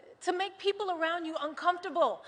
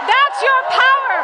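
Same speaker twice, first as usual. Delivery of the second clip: loud, higher punch on your; fired-up rally cry; rally shout; 9 semitones higher, 10 dB louder than usual. Real, not acted. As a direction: shout it to the crowd. Rally speech, repeated emphasis.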